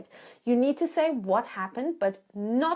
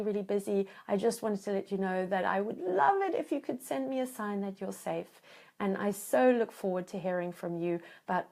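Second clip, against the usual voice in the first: tender loving voicemail. Retold or imitated. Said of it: "go into the wish in disguise".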